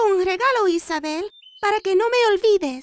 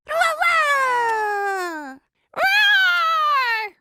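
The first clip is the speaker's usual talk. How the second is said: roaring like a dragon; 4 semitones higher, much slower than usual. Pretend. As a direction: play the fierce dragon, roaring. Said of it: "el dragón rugió".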